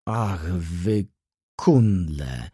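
low, growled insult in a rage; seething, contemptuous exclamation; furious outburst. A narrator's reading. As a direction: spit out the insult in fury. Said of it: "zawołał w najwyższej pasji".

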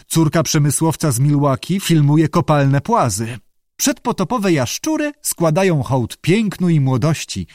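mildly lofty proclamation; poetic. A narrator's reading. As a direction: offer it like a line of verse, pitch lifted. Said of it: "zaproponował poetycko Abe".

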